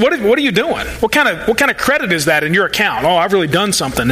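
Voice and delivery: mildly sarcastic challenge, then mock self-congratulation. Preacher voicing Jesus challenging his followers, mildly sarcastic. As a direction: question them with a touch of sarcasm. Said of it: "hear the sarcasm in his voice".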